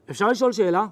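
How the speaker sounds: grave, smile-free question; a sober, flat-out serious ask. Retold or imitated. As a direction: ask it straight-faced and heavy. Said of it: "טון אחר".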